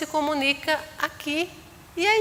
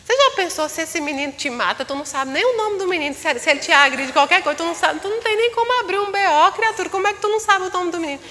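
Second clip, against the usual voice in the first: higher, fast exasperated telling-off; mock scolding; 6 semitones higher, faster than usual. Scolding her friend for not knowing his name, exasperated. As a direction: scold your friend in disbelief.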